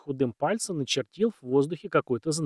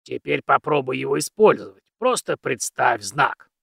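put-on very old man; 5 dB louder than usual. Old mentor instructs.

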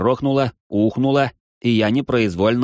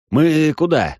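sharp startled question, louder; surprised; 8 semitones higher, 4 dB louder, slower than usual. Acted. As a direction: blurt it out in alarm. Startled question while running.

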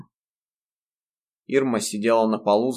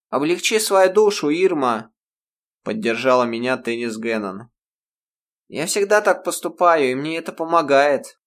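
бодрая девушка; 5 semitones higher, 5 dB louder than usual. A narrator's reading. Теннис подбадривает Ирму.

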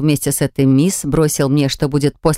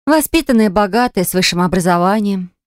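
emphatic listing; 3 semitones higher than usual. Acted. Listing rival's virtues emphatically.

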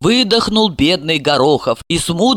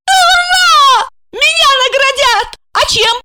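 high squealing joy; delighted squeal; 5 dB louder than usual. Acted. Asya, rewarded, squealing high and loud. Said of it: "Ася взвизгнула от восторга".

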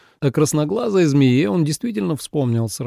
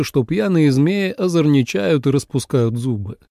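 ordinary delivery, nothing marked

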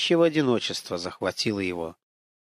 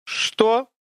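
sharp, higher, louder what; high startled what; 10 semitones higher, 3 dB louder than usual. Acted. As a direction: blurt it out too high. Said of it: "вот за это «что»".

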